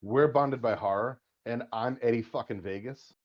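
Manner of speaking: slow, drawn-out announcer intro. Acted. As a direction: announce the name like a ring MC. Announces show and himself.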